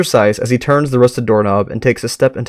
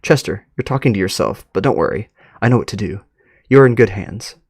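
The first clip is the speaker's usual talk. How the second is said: serious but calm; 3 semitones lower than usual. Acted. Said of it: "a serious but calm tone".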